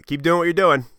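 a hint of a joking grandpa; mock cheerful grandpa; grandfather's teasing line. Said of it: "he looks at me and he goes".

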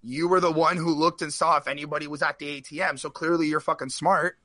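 lightly voiced dad lecturing his son; father. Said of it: "He's like".

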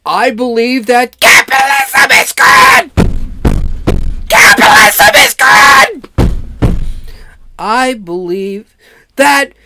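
shouting off-mic; turned away from mic. Shown as a demonstration. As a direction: voice from a step back. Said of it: "step away from the mic a little bit".

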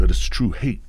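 suddenly loud, banging the mic; excited outburst. Real, not acted. Comic getting worked up about true hate, loud outburst. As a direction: burst out in real excitement. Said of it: "I'm getting excited".

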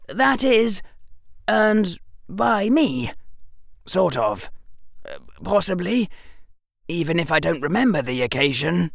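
put-on a bright boy working it out aloud; clever boy. A narrator's reading. Harry voiced by narrator.

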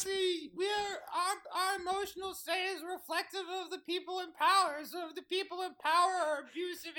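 soft, sullen explanation; subdued grievance. Acted. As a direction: drop the volume and explain the hurt. Elf explains after the shouting.

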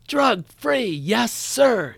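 high-pitched mock class yell; imitating yelling pupils. Second graders yelling back to their teacher, imitated high yell. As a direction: mimic kids chanting back in unison, pitched high. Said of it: "in unison they yell".

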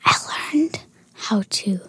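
shy whisper. Real, not acted. Daughter tells of shaving.

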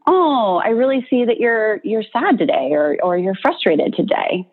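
gently name it to tame it; caring friend, mildly tender; empathetic naming. Retold or imitated. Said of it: "somebody comes up to you and they say".

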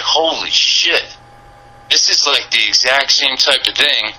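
high, slow, stunned holy-shit moment; awed realization. Retold or imitated. Retelling his awe at the Frank Robinson statue, reliving it in a high slow voice. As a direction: let the realization hit you, drawn out.

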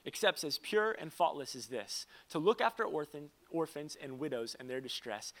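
a preacher reading the Bible verse; scripture reading. Acted. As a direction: read it like scripture from the pulpit. Pastor reads scripture aloud.

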